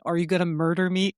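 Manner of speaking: put-on thick Russian accent, a touch fast; quick line in a heavy Russian accent. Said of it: "in his thick Russian accent".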